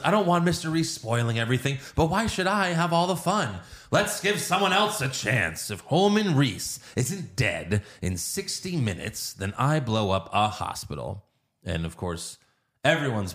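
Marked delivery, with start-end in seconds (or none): 0.0-11.2 Joker. Retold or imitated. Villain phoning in a hospital threat, theatrical and swooping. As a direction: start playfully high, then sink into a deliberate threat. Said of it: "no, he goes".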